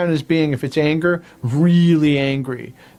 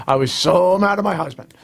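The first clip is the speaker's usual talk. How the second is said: laughing; 3 semitones higher than usual. Real, not acted. Quoting client, laughing.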